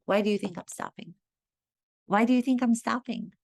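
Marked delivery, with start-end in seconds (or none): 2.1-3.3 higher, insistent teacher's question; pressing repeat. Retold or imitated. Acting teacher pressing a student for the answer, insistent. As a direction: put the question to them more pointedly.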